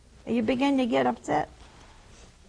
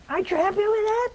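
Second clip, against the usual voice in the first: teasing question; 12 semitones higher, much faster than usual. Retold or imitated. Priest teasing the widow.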